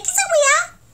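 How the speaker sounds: "¿qué esa weá?" shooting up high at the end; sharp upward Chilean question; rising Chilean intonation. Shown as a demonstration. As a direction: let "¿qué esa weá?" climb steeply. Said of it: "va para arriba y para arriba".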